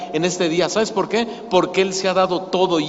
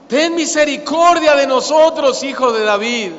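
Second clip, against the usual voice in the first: "misericordia" cried out high and loud; desperate cry; 5 semitones higher, 4 dB louder than usual. Shown as a demonstration. Preacher voices the blind men crying to Jesus, loud and desperate. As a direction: shout it like a blind beggar pleading. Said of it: "Y ellos gritaron".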